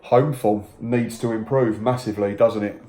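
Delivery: ordinary delivery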